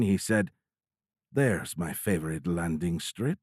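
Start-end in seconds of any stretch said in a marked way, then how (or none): 1.3-3.4 devilish grin. Acted. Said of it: "With a devilish grin".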